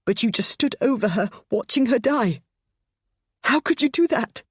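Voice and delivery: mother accusing her son, rising to a loud cry; anguished accusation. A narrator's reading. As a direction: confront him, building to despair.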